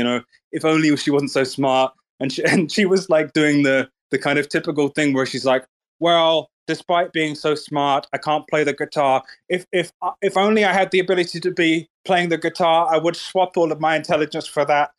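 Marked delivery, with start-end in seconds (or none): 6.0-14.9 slightly raised, put-on humble lament; mock humble. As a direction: imitate a humblebragger feigning regret. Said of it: "trying to act all humble and shit".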